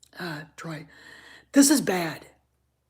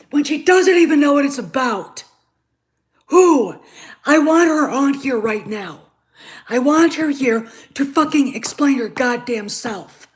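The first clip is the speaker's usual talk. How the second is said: angry rant; 3 semitones higher, 4 dB louder than usual. Real, not acted. Ranting about a Star Wars writer.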